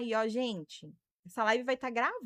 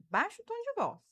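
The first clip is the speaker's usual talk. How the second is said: firm boundary-setting; 9 semitones higher than usual. Shown as a demonstration. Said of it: "você faz assim, ó".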